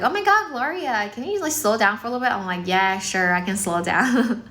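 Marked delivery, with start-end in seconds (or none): 0.0-2.3 higher-pitched mock exclamation, then quicker request; imitated viewer plea. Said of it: "people are like". 2.7-4.4 agreeable reply easing into a slow pace; deliberately slowed down. Retold or imitated. Streamer agreeing to viewers' request, deliberately slowed down. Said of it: "not my normal speed".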